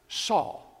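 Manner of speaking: breathy whisper of the name; a hushed whisper of Saul's name. Acted. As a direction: whisper it like a secret call. Jesus speaks Saul's earlier name.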